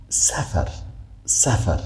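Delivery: "سفر" with a hissed s, not th; plain s sound. Shown as a demonstration. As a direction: keep the tongue tip in for "سفر". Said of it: "از نوک زبان تلفظ نمیشه". («سفر» با سین، نه ثا)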